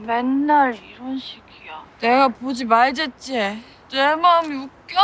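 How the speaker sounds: put-on belligerent drunk. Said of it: "술주정을 부리더니".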